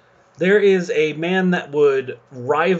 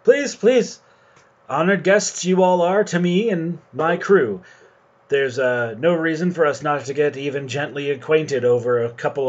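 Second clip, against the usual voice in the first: pitched-up fop, hospitable; foppish captain; 3 semitones higher than usual. Acted. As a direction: play the preening captain offering wine. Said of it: "sitting next to it and goes".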